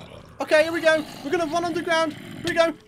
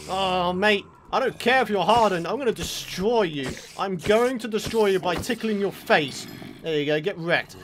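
mock menace; 6 semitones lower than usual. Mock threatening the zombies.

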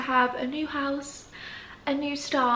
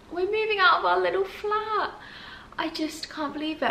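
emotional; 7 semitones higher than usual. Real, not acted. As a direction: voice catching with emotion. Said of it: "I actually feel quite emotional".

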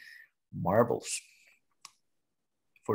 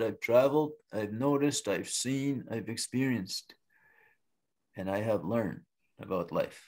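wise turtle; 2 semitones lower, 4 dB quieter than usual. Acted. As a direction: calmly list a life's lessons, voice sinking. Turtle answers with measured wisdom.

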